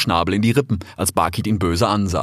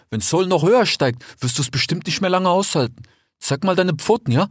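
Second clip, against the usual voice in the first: put-on a slightly higher, friendly young fox; lightly voiced fox; 8 semitones higher than usual. A narrator's reading. Desert fox talking to his brother Rix, lightly voiced. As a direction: play the eager desert fox.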